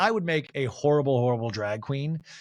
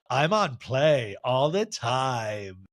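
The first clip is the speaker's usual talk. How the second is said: slow drawl; 3 semitones lower, much slower than usual. Retold or imitated. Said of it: "Lisa pauses and she goes".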